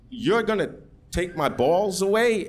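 high-pitched horrified question; incredulous, pitch climbing; alarmed disbelief. Retold or imitated. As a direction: recoil from the doctor's plan in alarm. Acted alarm at doctor's plan.

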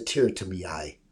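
light put-on Irish accent; a hint of Irish brogue; Irish imitation. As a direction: slip into a mild mock Irish lilt. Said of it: "that's my Irish imitation".

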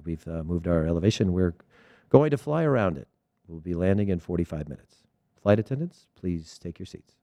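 lightly voiced captain on the intercom, low and composed; calm airline captain. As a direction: reassure the cabin like an unruffled pilot. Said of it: "Completely calm".

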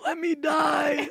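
high, slow strained dying cry; wounded soldier gasping. Acted. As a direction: beg to die, hammed up. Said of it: "You say as you die".

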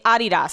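Adidas said the German way; German pronunciation. Shown as a demonstration. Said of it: "pronunciation is Adidas".

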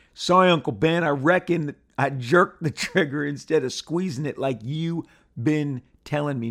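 mildly hammed-up comic book dialogue; hammed-up reading. Shown as a demonstration. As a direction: read it again with some relish. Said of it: "I'm gonna say it again".

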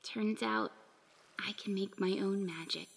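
soft unvoiced whisper. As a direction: breathe it out in a whisper. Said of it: "she whispered".

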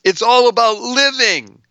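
up high and bright, selling the slogan; excited. Real, not acted. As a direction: lift it, all about living!. Host emphatic slogan.

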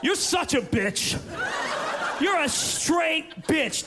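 drawn-out, shouted insult; teen shouting insults at his mom, slow and mean. Acted. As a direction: drag it out to hurt.

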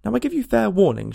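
loud, high, imperious shout; shouted warning. A narrator's reading. Queen threatens the Duchess while stamping, shouting. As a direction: raise your voice in a commanding threat. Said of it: "shouted the Queen".

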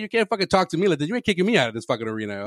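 high, mock yelling impression of a rapper. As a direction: rant it like a furious rapper. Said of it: "the rapper just starts, just starts screaming".

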